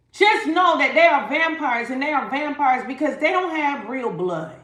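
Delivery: insistent stressed delivery; emphatic warning. Real, not acted. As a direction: drive the warning home. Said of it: "I don't know why I wanna say it like that".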